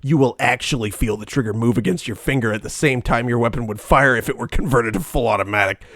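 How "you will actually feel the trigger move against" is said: infomercial voice. Acted. Ad read aloud.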